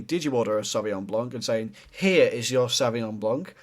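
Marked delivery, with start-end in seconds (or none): 0.0-1.3 unsure waiter. Shown as a demonstration. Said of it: "The difference between going". 1.9-3.5 slow, sure, settled delivery; confident waiter. Shown as a demonstration. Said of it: "The second one, We know what we're doing".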